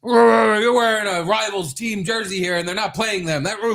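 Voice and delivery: hammed-up fury at a rival's jersey; mock outraged scolding. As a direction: scold him like a betrayed fan.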